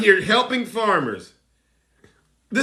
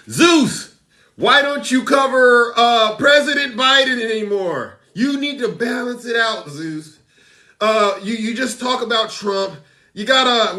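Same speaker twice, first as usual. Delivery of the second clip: mock complainer; 3 semitones higher than usual. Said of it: "I've been getting a lot of complaints".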